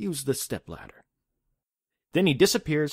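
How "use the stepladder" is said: quieter put-on comforting, soothing voice. Retelling what a man said when he appeared to a woman in a story: retelling a comforting voice. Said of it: "He says it in a comforting voice".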